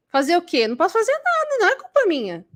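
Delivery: high-pitched mock helplessness; whiny excuse. Immature person shrugging off blame, whiny and high. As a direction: pitch leaps up in protest of innocence.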